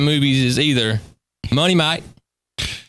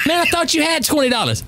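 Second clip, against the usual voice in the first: quoted friend; 9 semitones higher than usual. Retold or imitated. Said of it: "He said".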